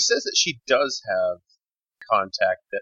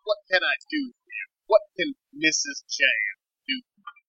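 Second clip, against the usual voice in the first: intense female character; 8 semitones higher than usual. Acted. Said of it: "And she says".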